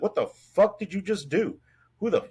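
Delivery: mock-angry demand, not full volume; kinda angry. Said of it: "he's kinda angry".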